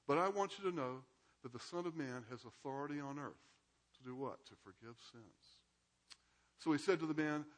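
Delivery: measured Bible reading to the class; reading scripture aloud. A narrator's reading. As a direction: read the passage aloud, steady and clear. Reads the Gospel passage aloud.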